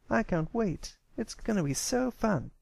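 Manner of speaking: can barely contain the fun ahead; eager. Acted. Filly tells the colt she can't wait, high and eager. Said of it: "ran off to prepare".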